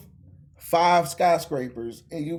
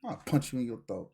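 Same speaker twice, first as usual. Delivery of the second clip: Vegeta; 3 semitones lower, 7 dB quieter than usual. Acted. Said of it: "whereas Vegeta's like".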